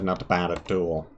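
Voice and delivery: a deep slow verdict of not bad at all; low approving not bad. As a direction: settle low and slow, mock impressed. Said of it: "Not bad, not bad".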